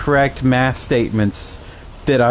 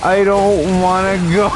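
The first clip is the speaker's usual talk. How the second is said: put-on whiny girlfriend; 8 semitones higher, slower than usual. Girlfriend refusing to go to the pharmacy, in a high mock whine. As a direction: whine it like a reluctant child. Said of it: "And she's like".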